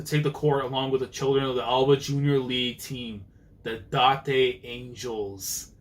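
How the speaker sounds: lightly voiced arena announcer; a hint of stadium announcer; announcer read. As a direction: read it out like a match announcer, slowing on the last name.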